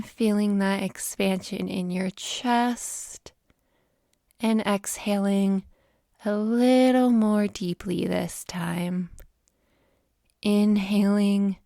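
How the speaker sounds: measured breathing cues, phrase by phrase; guided meditation. Acted. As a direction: ease the listener gently into the breath.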